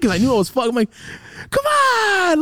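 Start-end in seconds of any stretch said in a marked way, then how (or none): 1.5-2.4 high, loud drawn-out whine; desperate pleading. Retold or imitated. Son pleading with dad to relent, desperate pleading. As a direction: reenact begging at full pitch. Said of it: "I was trying to plead".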